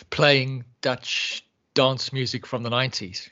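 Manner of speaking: slow, even machine-like reply; voice assistant. Retold or imitated. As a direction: lightly mimic a smart speaker. Imitating voice assistant's wrong answer.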